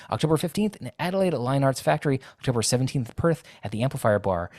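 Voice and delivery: lightly voiced announcer listing tour dates; a hint of radio announcer. Guest resumes reading tour dates in a light radio announcer voice. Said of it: "Do it in, in radio announcer voice".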